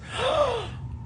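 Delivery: high, soft mock gasp; a hammed-up shocked gasp. Mocking panicked influencer.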